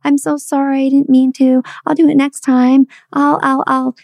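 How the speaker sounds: high, fumbling mock apology; guilty apology. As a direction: stammer out guilty excuses. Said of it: "that pool of guilt".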